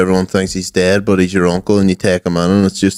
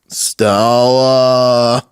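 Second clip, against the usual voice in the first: movie quote impression. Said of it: "the other great lines".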